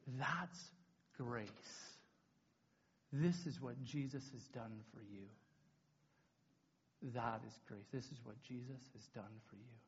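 low, very soft, with long pauses; hushed, solemn lesson. Retold or imitated. Leader explaining grace to camp, hushed and solemn. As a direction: let each phrase land gently and reverently. Lyndon's lesson, sermon climax.

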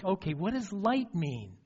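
normal talking voice

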